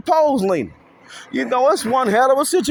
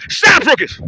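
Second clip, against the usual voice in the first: mock call-out; 8 semitones higher, 5 dB louder than usual. Catchphrase call-out.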